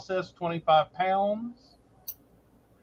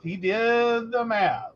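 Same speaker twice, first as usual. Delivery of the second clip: slow, with "did" leaned on; slow emphatic repeat; slower than usual. Shown as a demonstration. Backing up her husband to listeners, slow emphatic repeat. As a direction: spell out that he really did it. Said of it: "repeated line".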